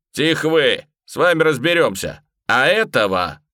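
loud harsh bark to silence them. A narrator's reading. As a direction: snap at them to shut up. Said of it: "рявкнул на барышню и мужика". (громко рявкает)

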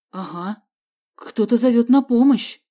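startled by cries for help; frightened. A narrator's reading. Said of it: "перепугался Вася". (испуганно, громче к концу)

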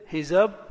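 هزبر split slowly as hizab...run; syllable-by-syllable. Shown as a demonstration. Teacher gives example word, slowly split. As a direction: pause inside هزبر after the silent b. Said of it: "الهاء مكسورة".

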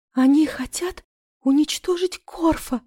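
high, slow, gasping; breathless gasp. A narrator's reading. She gasps the news to the medic, high and breathless. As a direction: choke it out breathlessly. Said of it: "задохнулась я".

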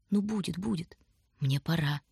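soft, consoling goodbye; gentle farewell. A narrator's reading. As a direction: soothe softly before leaving. Soft farewell amid weeping.

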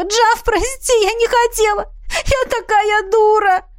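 высокая мольба со слезами; взмолись сквозь плач; отчаянная мольба. Acted. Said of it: "отчаянно взмолилась она". (Миранда в слезах просит прощения у Джафа)

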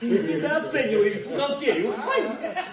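laughing through words; squealing with tickled laughter; being tickled. Acted.

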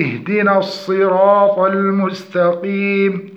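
measured tajweed reading; Quran recitation. Shown as a demonstration. Teacher cites the verse under study, measured recitation. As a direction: recite with drawn-out vowels.

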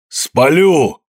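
high, loud raging cry; screamed threat. A narrator's reading. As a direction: hurl the threat after them. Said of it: "выкрикивал".

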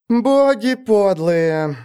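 медленно, себе под нос; буркни с досадой; grumbling. Acted. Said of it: "пробурчала Шурка Лаль". (ворчливо)

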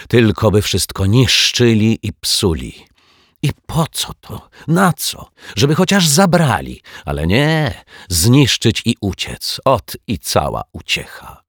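high, loud indignant rant; fuming. A narrator's reading. Neighbour cursing hooligans at the balcony window, fuming. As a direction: rail at the vandals, pitch jumping up. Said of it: "piekliła się".

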